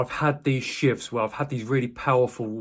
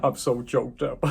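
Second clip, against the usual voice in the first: high, strained mock panic that eases off; retold choked-up outburst, starting high and dropping; imitated choking up; 3 semitones higher than usual. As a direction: act out being too choked up to speak, pitch starting high. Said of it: "not being able to just choking".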